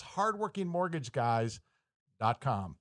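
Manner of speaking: hardworking mortgage guys dot com spaced out slowly, pause before "dot com"; slow, careful repeat. Real, not acted. Host repeats the web address for listeners, slow and spaced out.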